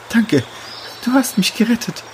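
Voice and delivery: relieved after the rescue; grateful young she-wolf. Acted. Chiara voiced higher.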